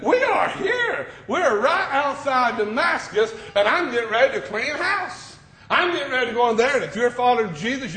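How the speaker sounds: lightly voiced menacing persecutor; a hint of a zealot bragging about his raid; Saul's threat. Preacher voicing Saul boasting to the congregation, menacing.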